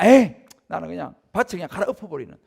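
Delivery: loud, fed-up farmer; mock angry farmer. Frustrated farmer after a price crash, loud and fed up. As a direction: throw it out like a farmer who has had enough. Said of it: "그런 경우도".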